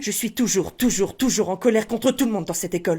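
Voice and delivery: thin, reedy character voice. Shown as a demonstration. Teacher adding step one to the sentence, thin voice. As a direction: say it in a thin little voice. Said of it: "vous rajoutez la voix fluette et aiguë".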